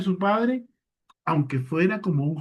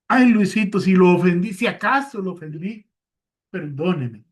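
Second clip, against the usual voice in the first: pitched-up, louder wheedling sorry that dodges the blame; flimsy mock apology; 4 dB louder than usual. Shown as a demonstration. Preacher mocking a careless apology to Luis, whiny and evasive. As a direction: play the half-hearted, evasive apology. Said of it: "No es la forma correcta".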